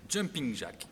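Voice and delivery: playful attempt at an English accent; French speaker showing off an English accent. Shown as a demonstration. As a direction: exercise names in a would-be English accent. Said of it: "l'accent anglais".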